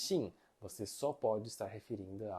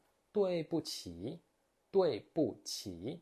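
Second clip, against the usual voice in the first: slow model phrase; 4 semitones higher, much slower than usual. Shown as a demonstration. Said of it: "a gente pode utilizar assim".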